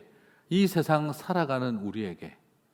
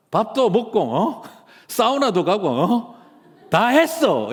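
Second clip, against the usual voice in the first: Seoul actor's fake Busan gangster accent, louder and higher; swaggering fake Gyeongsang gangster accent; mock Gyeongsang dialect; 8 semitones higher, 6 dB louder than usual. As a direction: brag like a Busan thug in a put-on Gyeongsang accent. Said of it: "보면은 경상도 사투리로".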